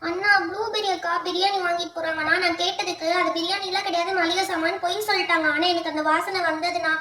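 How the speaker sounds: put-on mildly tearful child's grievance; tearful complaint. Little sister complaining to her brother about biryani, tearful. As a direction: whine it out through put-on tears. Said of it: "இந்த அழுகு அழுகுறியா".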